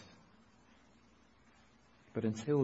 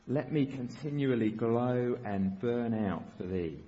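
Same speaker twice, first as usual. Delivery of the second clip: slowly read. Shown as a demonstration. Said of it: "let me read it slowly".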